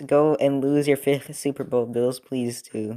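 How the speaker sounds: slow teasing jab at the Bills; mock taunt. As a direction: drag it out like a playful taunt. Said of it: "No, I'm joking".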